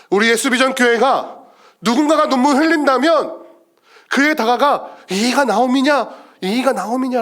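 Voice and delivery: high, earnest pulpit appeal; impassioned preaching. Real, not acted. Preacher asking the church to approach the weeping, impassioned. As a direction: lift the voice to rally the congregation.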